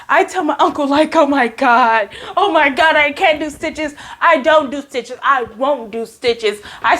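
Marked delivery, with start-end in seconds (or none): 1.2-6.6 mild, acted-out freak-out; retold panic. Telling uncle about the stitches, retold panic. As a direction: plead in mock panic, refusing more firmly. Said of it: "I start freaking out".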